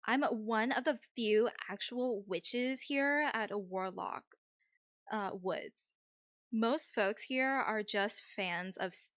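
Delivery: lightly voiced Valley girl; a hint of Valley-girl accent. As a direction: play it as a mild Valley girl. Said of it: "give Mandy a Valley accent".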